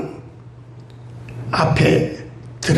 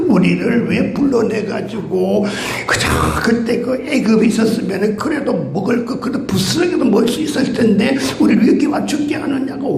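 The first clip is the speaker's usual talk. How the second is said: mock complaining. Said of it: "원망 불평하니까".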